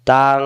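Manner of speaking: তাং drawn out on a nasal ng; hidden nun. Shown as a demonstration. Teacher showing nun sakin before fa, long nasal তাং. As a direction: hold তাং humming through the nose. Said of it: "গোপন করে পড়তে হয়".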